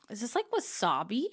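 talking while chewing; mouth full. Real, not acted. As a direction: speak through a mouthful of snack. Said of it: "sorry about the chewing".

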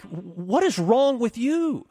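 high, slow, incredulous comeback; exasperated retort. Retold or imitated. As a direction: stretch it out in high-pitched disbelief. Retort in the retold argument.

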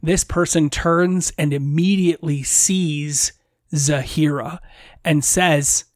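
ordinary talk, nothing marked

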